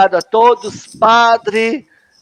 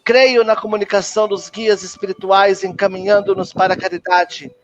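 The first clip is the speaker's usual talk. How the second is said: measured, solemn creed recitation; recited creed. Acted. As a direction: recite each belief as a formal prayer. Recita o credo da Umbanda. (credo recitado com solenidade)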